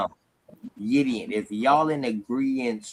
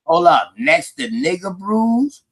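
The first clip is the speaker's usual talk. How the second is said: incredulous; 5 semitones higher, 4 dB louder, slower than usual. Real, not acted. Incredulous reaction to name.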